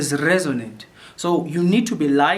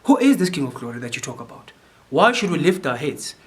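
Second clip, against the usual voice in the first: curious asking. Shown as a demonstration. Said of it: "asking from a curious point of view".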